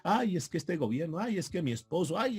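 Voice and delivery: mock whiny complaints; hammed-up self-pitying sighs; mock whining. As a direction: whine like someone seeking pity. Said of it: "lloriqueando y dando lástima".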